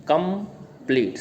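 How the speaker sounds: कंप्लीट broken as कं, प्लीट; split into syllables. Shown as a demonstration. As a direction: sound out both syllables of कंप्लीट. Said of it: "इसमें दो sound है". (कंप्लीट के दोनों syllable अलग-अलग)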